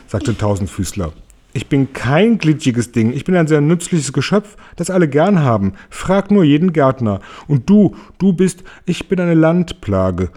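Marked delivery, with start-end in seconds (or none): 1.5-10.3 höher, prahlerisch verkündend mit Grinsen; grinsend verkündet. A narrator's reading. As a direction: prahle grinsend vor allen. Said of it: "verkündete Tausendfüßler grinsend". (Tausendfüßler verkündet grinsend vor allen, etwas höher)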